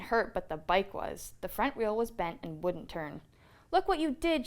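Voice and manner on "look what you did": higher, louder angry shout. A narrator's reading. Brother blaming Fred for the bent bike, angry shout. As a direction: yell it at the cousin who bent the wheel. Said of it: "shouted Brother".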